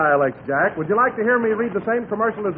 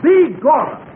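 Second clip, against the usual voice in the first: Irish brogue; 5 semitones higher, 6 dB louder, slower than usual. Acted. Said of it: "deliver it with an Irish brogue".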